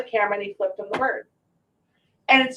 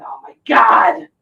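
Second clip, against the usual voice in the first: slow, loud, hammed-up indignant shout; mock outraged dead husband; 2 semitones higher, 6 dB louder, slower than usual. Late husband mocked from heaven, hammed-up outrage. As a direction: play the offended dead man, booming. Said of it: "he's up there going".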